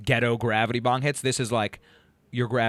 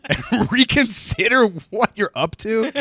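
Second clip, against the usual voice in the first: laughing tease; 10 semitones higher, 8 dB louder than usual. Acted. Teasing advice, laughing.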